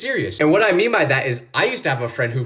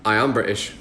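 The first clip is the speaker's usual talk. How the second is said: low-pitched pretend British accent; bluffing fake Brit; 8 semitones lower than usual. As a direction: insist in a put-on British accent. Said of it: "kept pretending to be British".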